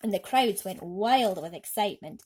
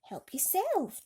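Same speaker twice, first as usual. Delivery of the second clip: put-on higher, slow boy's voice calling back; James shouting back; 9 semitones higher, slower than usual. A narrator's reading. James calling to the girl from the car, higher and slow. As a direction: call out generously. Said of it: "James shouted back".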